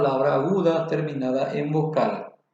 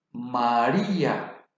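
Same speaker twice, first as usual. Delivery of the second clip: "María" said slowly with the force on the í; stress on the i; 5 semitones lower, slower than usual. Shown as a demonstration. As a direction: stretch "María" and hit the í. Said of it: "La fuerza de la voz recae en la vocal débil".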